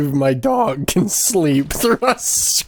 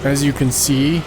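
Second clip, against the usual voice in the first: nature documentary; 2 semitones lower than usual. Acted. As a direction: narrate like a wildlife film. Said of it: "here we see a wild Isaac Clarke".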